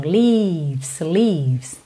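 "Leaves" with a long held ee; long vowel. Shown as a demonstration. Teacher demonstrates the vowel length, "leaves" with long ee. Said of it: "esse som também compridinho".

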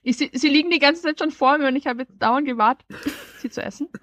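fast, talking through a mouthful; apologizing while still chewing; mouth full. Real, not acted. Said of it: "erzähl uns jetzt direkt mit vollem Mund".

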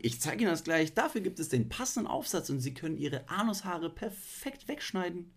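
high, loud salesman pitch; chipper 1950s ad. Pretend. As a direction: beam like an old TV salesman. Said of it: "Sidekick im Studio". (schwungvoller Werbesprecher)

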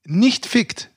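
slow, deliberate and earnest; dead serious. Real, not acted. Guest insists to the hosts he means it, slow and dead serious. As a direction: spell it out slowly so they know you mean it. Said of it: "Oh, jetzt wird er ganz ernst".

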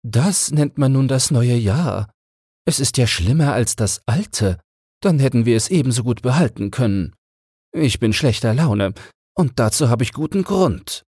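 a small bird in a bad mood complaining; grumpy sparrow. A narrator's reading. Sparrow grumbling to another about the new year, high and cross. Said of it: "sagte der eine zum anderen".

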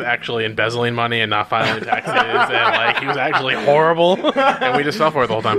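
loud, laughing outrage. Real, not acted. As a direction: laugh through the rant. Laughing rant about Adelar.

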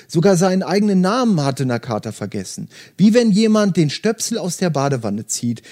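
steady audiobook narration with light character voices; story reading. Acted. Host reading Murakami to podcast listeners, calm narration. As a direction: read the novel passage aloud, calm and even. Reads novel aloud to listeners.

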